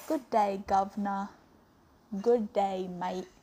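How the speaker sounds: Aussie greeting drifting towards British; attempted Australian accent. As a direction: try Australian, land a little British. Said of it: "Maybe it's a little too British".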